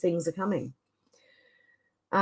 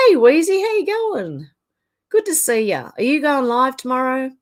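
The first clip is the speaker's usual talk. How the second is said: excited greeting; 6 semitones higher, 7 dB louder than usual. Real, not acted. Greeting a viewer in chat.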